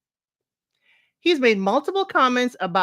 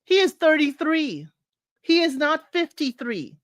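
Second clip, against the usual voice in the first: HE raised and stressed, incredulous; emphatic incredulity; 5 semitones higher than usual. Real, not acted. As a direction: hammer home his age. Stressing his age, incredulous.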